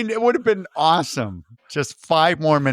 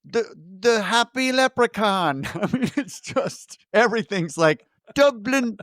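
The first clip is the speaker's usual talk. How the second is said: mock-grand announcing; 6 semitones higher than usual. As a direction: read the names like a showman. Reading out Irish shop names.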